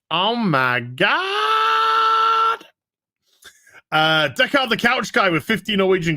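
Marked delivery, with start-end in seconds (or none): 0.1-2.6 a much higher, very slow, shouted oh my God; stunned exclamation. Real, not acted. Streamer reacts to a viewer's Lucas trivia with stunned shout. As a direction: let it stretch out in disbelief.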